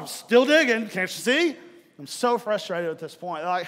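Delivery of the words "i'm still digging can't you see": exasperated retort. Retold or imitated. Frustrated answer to wife.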